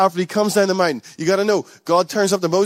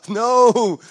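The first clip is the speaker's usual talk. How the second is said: sharp gasp, higher and louder no; 6 semitones higher, 4 dB louder than usual. Real, not acted. Preacher to church, gasping a shocked no. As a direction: gasp and cut the excuse dead. Preacher gasps then rejects idea.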